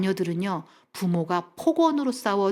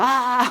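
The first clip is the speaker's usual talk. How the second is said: higher acted-out cry of panic; mock crazed scream; 3 semitones higher, 4 dB louder than usual. Wife with anxiety surging again, mock crazed scream. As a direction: imitate an outburst of anxiety. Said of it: "약간 미친 여자가 돼요".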